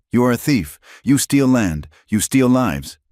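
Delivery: a wronged woman confronting the raider at her burning home; loud accusation. Acted. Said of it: "Her voice was raspy from the smoke, but loud".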